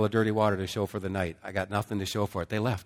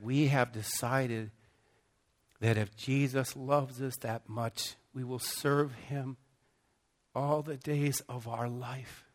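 solemn vow; 3 semitones higher, slower than usual. Retold or imitated. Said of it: "they said".

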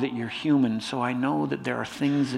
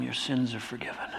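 quiet, gentle absolution; softly, as Jesus forgiving someone; hushed forgiveness; 3 semitones lower, 9 dB quieter than usual. Acted. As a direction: say it very softly, falling away. Jesus's words, retold softly.

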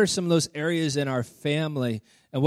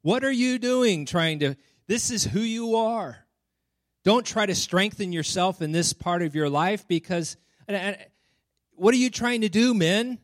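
higher-pitched sneering enemy voice, lightly put on; mock the man for trying to change; mocking scoffer; 4 semitones higher than usual. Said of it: "you hear scoffing".

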